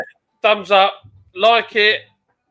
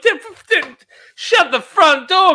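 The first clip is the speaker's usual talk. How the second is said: higher, slow hammed-up American exclamation; mock American; 11 semitones higher, 4 dB louder than usual. Friend hams up an American exclamation in surprise. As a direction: drawl it like a loud American.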